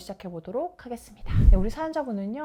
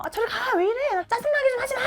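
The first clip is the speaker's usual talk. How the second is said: high, loud acted shriek of irritation; angry shouting; 13 semitones higher, 5 dB louder than usual. Wife in the recording yelling at husband, high irritated shout. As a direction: yell them away, imitating a fed-up wife. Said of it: "아내분이 소리를 지르면서".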